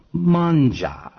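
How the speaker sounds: hint of a coaxing Italian nonna; doting grandmother. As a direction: coax like a grandmother feeding you. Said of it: "like your grandmother".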